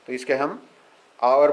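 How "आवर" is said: आवर starting straight on an "aa" vowel; silent H. Shown as a demonstration. Teacher shows why it takes "an", आवर with silent H. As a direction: drop the H, open आवर with "aa". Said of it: "आ से शुरू होगा".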